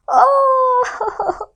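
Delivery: breathy hushed oh of wonder; surprised gasp. Acted. Moon gasping at the spinning fish, amazed. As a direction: gasp it in awe.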